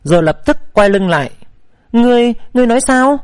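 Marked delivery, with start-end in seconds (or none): 1.9-3.2 higher, quick stammered question; nervous, halting disbelief; trembling question. A narrator's reading. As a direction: stammer it, a touch shaken. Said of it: "Phi Yến run run hỏi".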